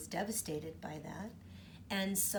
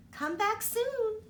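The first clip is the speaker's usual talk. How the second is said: sleepy yawn; 13 semitones higher, 6 dB louder, slower than usual. Acted. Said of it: "with a sleepy yawn".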